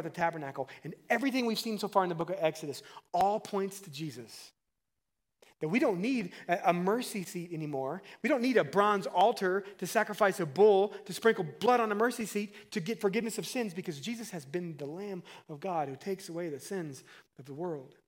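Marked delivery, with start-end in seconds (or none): 5.7-13.7 raised, emphatic pulpit voice; insistent sermon build; impassioned preaching. Real, not acted. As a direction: preach it louder and higher. Preaches at full force.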